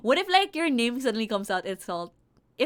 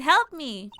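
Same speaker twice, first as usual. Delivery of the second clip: mock scream; 4 semitones higher, 6 dB louder than usual. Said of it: "You screamed".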